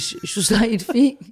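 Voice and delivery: startled concern, drawn out; worried alarm. Retold or imitated. Retelling a worried reaction. (مفزوع وقلق)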